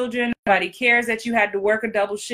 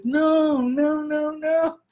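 Kevin Hart voice; 5 semitones higher, much slower than usual. Retold or imitated. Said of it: "I'm doing my Kevin Hart voice".

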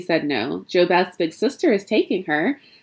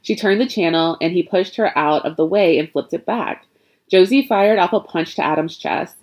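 plain reading voice

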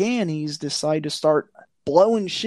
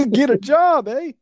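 high, louder mock Canadian accent; bad Canadian accent; 9 semitones higher, 4 dB louder than usual. Mock Canadian tells illegal entrant off, bad Canadian accent. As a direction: lean into a badly faked Canadian accent. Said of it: "I can't do a Canadian accent".

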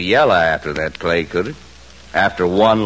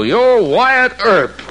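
sneering; 3 dB louder, slower than usual. Acted. Bully sneers at the marshal.

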